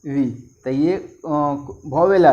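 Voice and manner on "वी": letters spelled out very slowly; slow spelling. Shown as a demonstration. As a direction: drag each letter for the class. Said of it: "इसका उच्चारण क्या हो जाएगा?".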